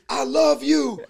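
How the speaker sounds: high-pitched imitation holler; mock yell. Friend retelling what interrupted the conversation, mock yell. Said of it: "is just yelling in her face".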